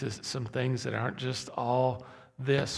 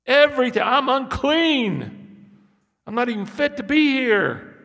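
anguished prophet; 9 semitones higher, 9 dB louder than usual. Acted. Isaiah confesses his unclean lips before God, high and loud. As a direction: cry it out as a man undone.

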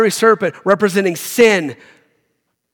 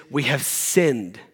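low, slow and softer admission; solemn confession; 5 semitones lower, 5 dB quieter, much slower than usual. Acted. Preacher voicing Israelites confessing to Moses, slow hushed confession. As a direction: confess it slowly, dropping soft and low.

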